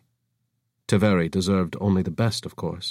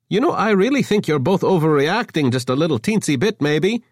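coaxing; 9 semitones higher, 4 dB louder than usual. Acted. Avra coaxing.

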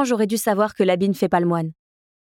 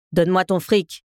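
mustache twirling villain. A narrator's reading. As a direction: hiss the demand like a villain. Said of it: "siffla-t-il".

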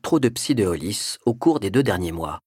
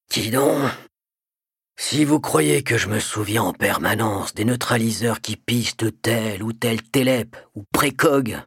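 sleepy voice. Acted. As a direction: grumble it half asleep. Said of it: "grogna d'une voix ensommeillée".

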